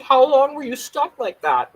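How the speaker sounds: family doctor, amused, asking slowly. Retold or imitated. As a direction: ask it like a tickled doctor.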